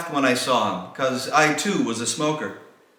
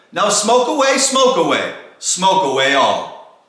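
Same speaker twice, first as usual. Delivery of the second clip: shouted send-off; 6 dB louder than usual. Acted. Saint Toke sending off his team, loud then slowing. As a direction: shout it, then let it sag and stretch. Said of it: "he whistled and shouted".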